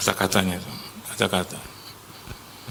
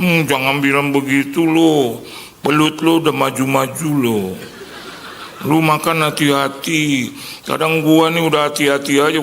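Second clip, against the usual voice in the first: higher, louder engkoh voice nagging a friend; Chinese-Indonesian uncle; 4 semitones higher, 3 dB louder than usual. Retold or imitated. Friend's uncle warns him to get checkups, in a Chinese-Indonesian accent. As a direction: lecture him like a fussy old uncle. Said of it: "Si engkau bilang".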